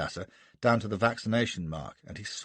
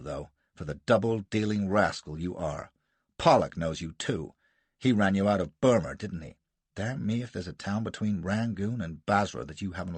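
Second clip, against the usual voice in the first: furious; 2 semitones lower than usual. Acted. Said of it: "Gardner exploded".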